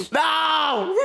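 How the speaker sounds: high helpless cry; laughing shriek. Real, not acted. Player losing it at an opponent, high laughing wail. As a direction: wail it while cracking up. Cracking up while fighting opponent.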